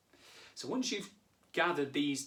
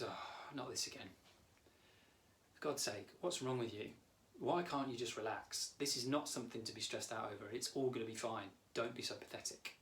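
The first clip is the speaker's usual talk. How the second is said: lightly voiced weary professor, softer; Professor Ted; 5 dB quieter than usual. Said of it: "Professor Ted kind of puts his book down like this".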